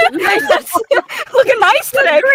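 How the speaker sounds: high, loud, hammed-up creepy flattery; creepy compliment. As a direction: lay on the creepy charm, squealing. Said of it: "Not, not creepy at all".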